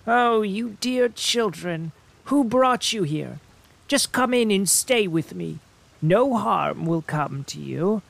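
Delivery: put-on sweet old woman. A narrator's reading. Old woman luring the children inside, falsely sweet and high. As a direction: coax the children in like a kindly granny. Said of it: "the old woman shook her head and said".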